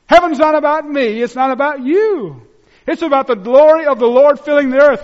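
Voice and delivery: full-force sermon proclamation; fervent preaching. Real, not acted. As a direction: preach it out to the whole room.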